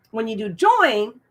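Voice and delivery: talking through a burp; a burp catching the words. Real, not acted. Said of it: "excuse me, I'm burping up here".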